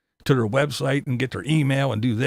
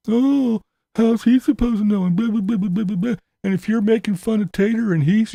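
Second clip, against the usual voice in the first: mocking defenders; 7 semitones higher than usual.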